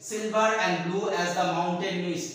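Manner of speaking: drawn-out reading of the line, each word spaced; slow poem recitation. Shown as a demonstration. Teacher reading a simile line aloud to students, slow recitation. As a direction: read the verse slowly to the class. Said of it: "simile".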